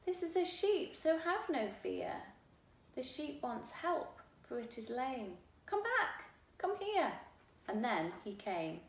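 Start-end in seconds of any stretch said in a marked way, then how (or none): 0.0-7.2 loud high calls across a field; raised voice calling come back, come here. Acted. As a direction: call him back from far away. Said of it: "I called".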